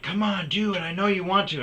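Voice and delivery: high, loud taunt imitating a girlfriend; mock goading. Retelling girlfriends goading him.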